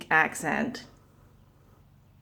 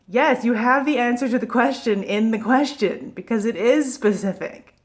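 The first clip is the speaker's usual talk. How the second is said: mild mock yell, higher voice; exasperated, half-shouted at a screen; retold yelling; 5 semitones higher, 4 dB louder than usual. Vlogger re-enacting yelling at an interview, mildly exasperated. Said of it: "I was yelling at the screen".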